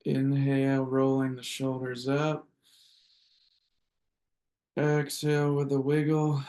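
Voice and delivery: measured breath-cue voice with long pauses; guided breathing. Acted. Leads group breathing.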